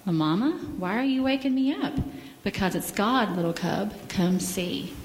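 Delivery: gentle storybook reading; children's story time in church. Acted. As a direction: read the bear story to the kids.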